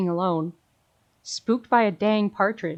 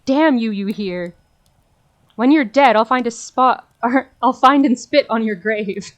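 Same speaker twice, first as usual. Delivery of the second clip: loud threatening outburst; angry cursing; 2 semitones higher, 6 dB louder than usual. Acted. Demon cursing the man and threatening his grave, loud anger. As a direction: curse him with every word.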